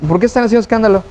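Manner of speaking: quick, lightly ironic question; mild irony. Retold or imitated. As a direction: gently question the fuss with a touch of irony. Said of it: "casi como por ironía".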